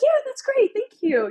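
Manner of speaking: very high, chirpy uptalk; bubbly high-pitched thank-you; customer service voice. Shown as a demonstration. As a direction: gush it like a friendly server. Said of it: "the server kinda has it".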